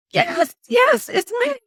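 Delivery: high shouted reply; shouting back to the neighbour from the stuck car; calling back. Retold or imitated. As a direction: shout back up the hill, relieved.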